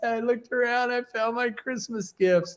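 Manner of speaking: mock blubbering through tears, high sobbing boo-hoo voice. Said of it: "he's just boo-hooing".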